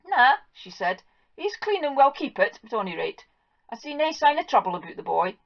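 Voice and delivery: high, brisk Scots verdict; relieved farm wife. Acted. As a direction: pronounce him clean like a fussy housewife. Wife inspects the boy.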